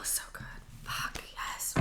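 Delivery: breathy whispered relief; whispering. Real, not acted. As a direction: whisper it with pleasure. Savoring Tai Chi break stretch.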